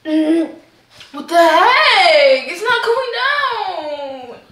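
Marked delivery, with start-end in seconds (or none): 1.1-4.4 strained distressed cry; choked up and straining; choking. Real, not acted. Chip stuck, distressed.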